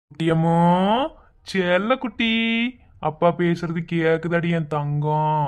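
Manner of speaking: slow, tender coaxing; slow and tender, coaxing the baby; cooing. Acted. Father tenderly coaxing his unborn baby, slow.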